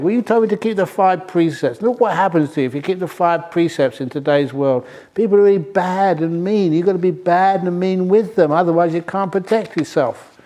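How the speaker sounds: lightly voiced, whiny bad snake; bad snake's complaint. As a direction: push the blame back, aggrieved.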